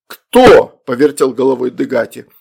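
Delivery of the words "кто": high, loud "who?"; astonished question. A narrator's reading. Father looks around for summoner, astonished. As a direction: burst out with sharp surprise.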